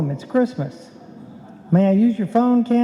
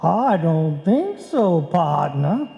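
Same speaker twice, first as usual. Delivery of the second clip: disguised cowboy voice; much slower than usual. Acted. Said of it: "Hey, that's good".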